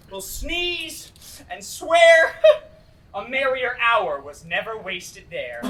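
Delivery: slow, laughing through the words. Acted. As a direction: crack up while telling it. Puck laughs at the tale.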